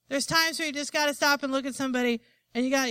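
ordinary delivery

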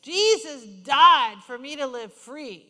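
emphatic scripture, building to a loud peak; preached declaration. Acted. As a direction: proclaim it, stretching the key words.

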